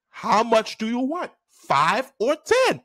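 slow, insistent question; stern teacher. Retold or imitated. Teacher pressing the boy to choose.

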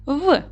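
"В" as one short speech sound; isolated sound. Shown as a demonstration. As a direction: sound out "В", not the letter name. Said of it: "виконаємо звуковий аналіз слова".

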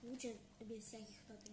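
eating with a spoon; talking between spoonfuls; mouth full. Real, not acted. Seen 2: spoon held at mouth, yogurt cup in hand while speaking.

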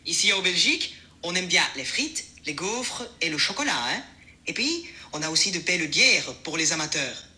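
French with a Belgian accent. Shown as a demonstration. Assistant demonstrates on request, mild Belgian accent. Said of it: "Maintenant, essayons l'accent belge".

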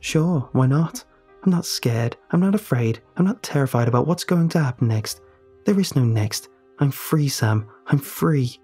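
convince yourself you're free; forced bravado. Acted. Ellie telling Sam she is free, forced bravado.

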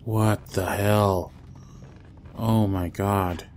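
slow, stunned and loud; shocked. Real, not acted. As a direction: drag it out in disbelief. Monster suddenly appears.

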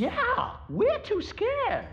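high, slow timid voice; scared admission. Acted. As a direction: admit fear timidly. Admitting fear.

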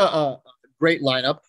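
mock praise, leaning loudly on "great"; sarcastic. Real, not acted. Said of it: "I say great sarcastically".

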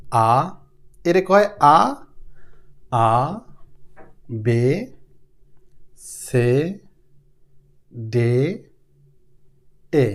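আ, বে, সে, দে low and drawn out, each rising; German letters. Shown as a demonstration. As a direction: model আ বে সে দে for learners. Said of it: "German ভাষায় ই রে বলা হয় এ".

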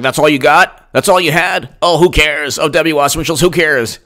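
breezy, scoffing who-cares voice; dismissive mock. Mocking Clinton fans shrugging off the emails, scoffing. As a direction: brush it off like a smug partisan. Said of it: "the I'm With Her crowd was like".

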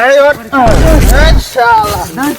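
shouting. Real, not acted. Rousing a passed-out friend.

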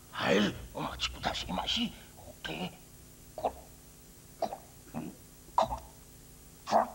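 lightly voiced old countryman; a simple old farmer answering the priest; old villager voice. Old villager, hesitant, grim news.

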